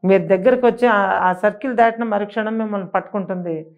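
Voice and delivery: shouting angrily at the husband not to come near; angry shout. Retold or imitated. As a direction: scold him hard to stop him. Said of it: "అని గట్టిగా అరిచాను నేను కోపానికి".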